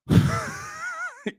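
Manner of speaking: high-pitched burst of laughter. Real, not acted. Comic after joking about the weather, high laugh. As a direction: laugh up high, well above the talking voice.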